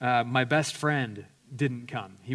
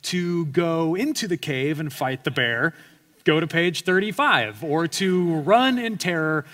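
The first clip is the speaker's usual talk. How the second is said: mock book narrator; 3 semitones higher, 5 dB louder than usual. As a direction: read it like a dramatic gamebook. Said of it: "it's like".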